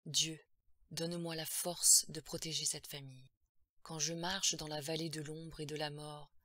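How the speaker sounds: level, intoned prayer with firm force; priest's prayer. A narrator's reading. Priest prays to protect the family, solemnly intoned. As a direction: intone it steadily like an exorcism.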